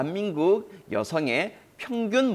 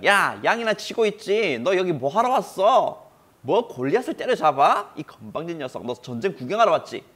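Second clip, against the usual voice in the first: put-on scolding older brother; 4 semitones higher, 4 dB louder than usual. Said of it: "화를 냈어요".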